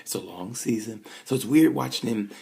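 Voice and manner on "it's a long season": calm advice. Retold or imitated. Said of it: "the other half was like".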